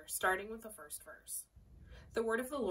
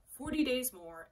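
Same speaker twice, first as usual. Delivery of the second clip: slower and louder proclamation; cried out; 4 semitones higher, 5 dB louder, slower than usual. Acted. Jonah crying out to the city, slow and loud. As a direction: call it out like a prophet's warning. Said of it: "he cried out".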